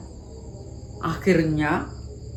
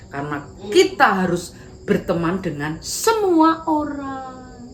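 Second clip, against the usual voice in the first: cheerful Dinda; 2 semitones higher than usual. Acted. Dinda reassuring Karin.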